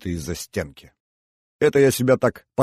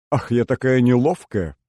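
feigned dismay; 3 semitones higher, 4 dB louder than usual. Acted. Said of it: "изобразила крайнюю степень огорчения".

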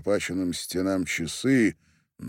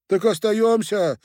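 1 glad; 9 dB louder than usual. A narrator's reading. Coachman glad to stay.

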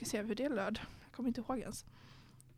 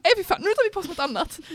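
mock disgusted outburst; 7 semitones higher, 6 dB louder, faster than usual. Retold reaction to outfit.

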